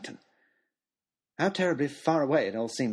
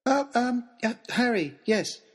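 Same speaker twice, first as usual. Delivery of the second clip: put-on nervous boy stammering uh, um; confused hesitant reply; stammered; 7 semitones higher, slower than usual. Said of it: "stammered Harry".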